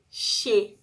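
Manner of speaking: Che said as SHE; syllable demo. Shown as a demonstration. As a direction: sound out Che for kids. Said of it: "Ó, mudou o som".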